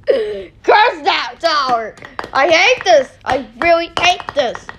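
mock-furious wail at the tower; playful rage. Real, not acted. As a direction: rage at the falling blocks, half laughing. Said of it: "I'm getting funny rage".

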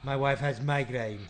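mock French accent, hammed lightly; a hint of a Frenchman complaining in a French accent. Caller as a French passenger, in a mild mock French accent. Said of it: "I'm gonna do it French".

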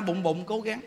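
low, hushed plea to one's own belly; inner voice. Retold or imitated. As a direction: coax your stomach under your breath. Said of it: "Mình nói trong bụng".

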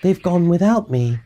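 high, plaintive little dinosaur; a touch of woe, pitched high; crying out. A narrator's reading. Drip left behind by his family, plaintive cry. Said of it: "And he cried".

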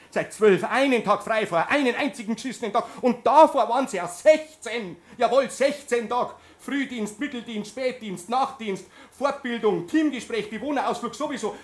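a worn-out nurse raising his voice; indignant protest. Acted. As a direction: protest to the boss about the hours. Indignant complaint to boss.

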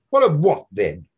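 high, loud mocking young man's voice; Buck Mulligan. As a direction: play the brash medical student, needling his friend.

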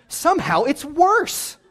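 slow, laughing disbelief. Real, not acted. Laughs at Numbers.

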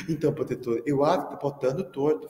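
put-on a light childish lisp; lisping little girl. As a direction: mimic a kid with a tongue-tie. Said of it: "Sofia tinha língua presa". (imitando de leve a menina de língua presa chamando o professor)

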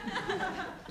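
chuckling aside; laughing. Real, not acted. Guest joking about Laurel and Hardy, laughing. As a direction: laugh through the quip.

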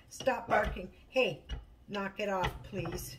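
real, brisk telling-off; scolding the dog. Real, not acted. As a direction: order the dog to quit it.

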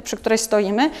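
normal talking voice

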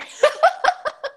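high burst of laughter; high, amused chuckling; real laugh. Real, not acted. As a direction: laugh out loud, pitched well up. Laughs retelling remark on her laughing.

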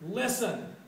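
sharp, high, loud call of "Listen!"; shout. Acted. Elder brother shouting at his father, angry shout. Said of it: "he, he shouts".

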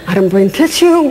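chuckling through the words; laughing aside. Real, not acted. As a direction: laugh at your own helplessness. Joking while kids cry.

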